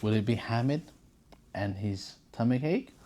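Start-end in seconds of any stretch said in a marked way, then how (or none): none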